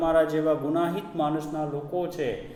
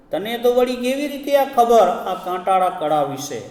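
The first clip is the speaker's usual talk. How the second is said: loud cry; 6 semitones higher, 6 dB louder than usual. A narrator's reading. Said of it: "મોટેથી ચીસ પાડીને પૂછ્યું".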